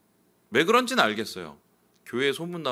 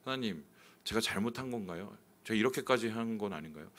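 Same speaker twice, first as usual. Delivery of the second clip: softer, doubting plea to God; quiet hurt prayer; 6 dB quieter than usual. Retold or imitated. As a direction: ask God softly if you were wrong. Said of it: "기도를 했어요".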